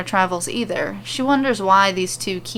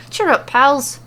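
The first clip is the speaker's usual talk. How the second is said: higher, louder rallying call; hearty cheer; 6 semitones higher, 5 dB louder, slower than usual. A narrator's reading. Becky throwing arms round her friends, hearty and loud. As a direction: buck them up with a big arm hug.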